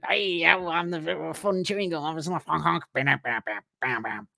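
slow, high cartoon gum character; fun chewing gum. A pack of gum running up to the couple, slow and cartoonish. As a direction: play a goofy gum that wants to party.

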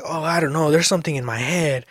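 a hint of a little girl; imitating sleep-talking daughter. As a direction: mimic a puzzled kid half asleep. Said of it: "She's like".

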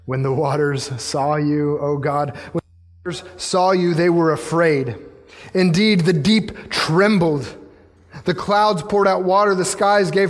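slow, deliberate phrasing; solemn scripture reading. Real, not acted. Preacher reading how the waters saw God, solemn. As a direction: weigh each phrase and stretch the key words.

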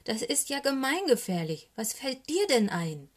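indignant owl telling someone off; cross, emphatic owl reprimand; angry scolding. A narrator's reading. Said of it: "schimpft die Eule".

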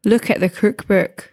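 poor stab at a Scottish accent; tentative learner's Scottish accent; attempted Scottish accent. Shown as a demonstration. Put on the spot by friends, weak Scottish accent. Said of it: "in your best Scottish accent".

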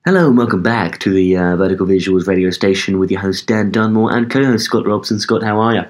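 toned-down radio presenter welcome; radio host voice. Shown as a demonstration. Welcoming listeners back to the station, easy radio host voice. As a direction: lightly put on a radio host's greeting. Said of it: "Do your best radio voice".

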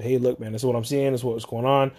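a calm man explaining his problem plainly; calm, reasonable caller. Retold or imitated. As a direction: model how a calm caller sounds. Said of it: "He could have just calmly said".

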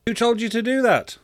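high-pitched incredulous question; completely bewildered. A narrator's reading. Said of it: "completely bewildered".

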